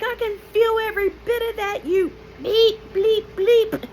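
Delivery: high, loud cursing outburst; furious retort. Retold or imitated. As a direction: shout back at the doctor in pain. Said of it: "And I'm like".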